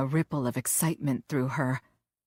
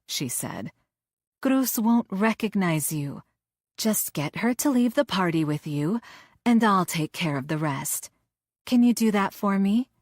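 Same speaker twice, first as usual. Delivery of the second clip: coaxing villainess; 4 semitones higher than usual. Acted. Villainess coaxes her henchman.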